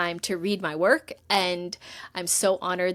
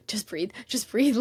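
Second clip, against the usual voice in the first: whispered self-calming; whisper to herself; 2 semitones higher than usual. Retold or imitated. Calming herself before replying to the agent: whispered. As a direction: hush yourself down, just breathe. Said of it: "trying to, like, regulate myself".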